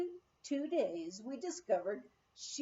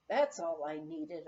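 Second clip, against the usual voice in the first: low, weary moan; a low, tired moan; 6 semitones lower than usual. Acted. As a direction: groan it out, fed up. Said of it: "I moaned".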